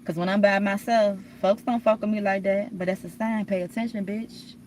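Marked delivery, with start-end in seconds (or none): 3.5-4.5 mock scolding. Scolding her past self for missing the sign, mock sass. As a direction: pay attention, a sassy jab at herself. Scolding herself, playing the fool.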